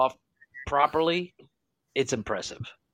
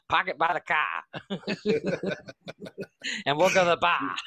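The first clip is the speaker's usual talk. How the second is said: put-on playful Boston accent, dropped R's in car and bar; a joking take on a Boston local's accent; mock Boston accent. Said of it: "I wish I could do a Boston accent".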